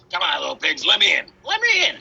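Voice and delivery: rising to a high shout; pleading shout. Acted. Wolf pleading at the door.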